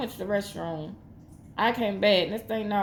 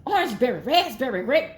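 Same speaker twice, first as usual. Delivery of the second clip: a higher, louder cartoon-rabbit chant, listing the flavours; bug-eyed cartoon rabbit rattling off the fruits; Twix rabbit voice; 5 semitones higher, 4 dB louder than usual. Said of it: "like that rabbit, that Twix rabbit".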